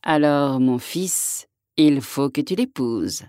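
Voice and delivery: a touch of a solemn king, slow; gravely. Acted. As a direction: pronounce it gravely like an old king. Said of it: "répondit gravement le roi".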